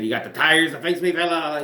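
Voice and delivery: lightly voiced Irish accent, half-hearted; a quick hint of the bad Irish brogue; mock Irish accent. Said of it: "That was a terrible Irish accent".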